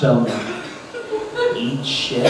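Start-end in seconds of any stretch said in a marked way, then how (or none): 1.6-2.3 hushed punchline. Real, not acted. Punchline dropped low.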